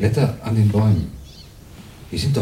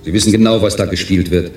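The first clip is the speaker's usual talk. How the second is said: angry accusation; 3 dB louder than usual. Acted. Jan accuses the tester.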